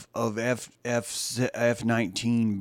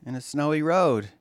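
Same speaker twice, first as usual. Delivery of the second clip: a hint of a creepy fan, lingering pauses; creepy obsessed fan; 4 semitones higher than usual. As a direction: play the unhinged fan cooing at the trapped writer. Improvised Misery-style fan monologue.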